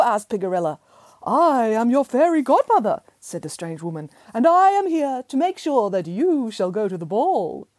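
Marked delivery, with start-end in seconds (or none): 1.2-3.0 high, lilting fairy voice; sweet fairy godmother. Acted. Magical fairy introduces herself. 4.3-7.7 high, lilting fairy voice; sweet fairy godmother. Acted. Magical fairy introduces herself.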